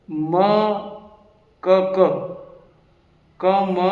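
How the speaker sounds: isolated syllables with long pauses between; separate, evenly weighted syllables; letter by letter. Shown as a demonstration. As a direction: say each letter on its own. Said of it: "अलग अलग अलग format में".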